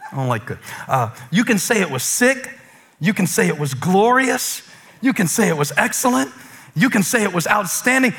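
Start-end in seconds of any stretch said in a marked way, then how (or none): none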